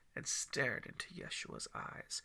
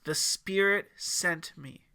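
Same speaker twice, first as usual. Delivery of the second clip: near yell; 4 semitones higher, 9 dB louder, slower than usual. A narrator's reading. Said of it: "almost at a yell, his voice scratchy".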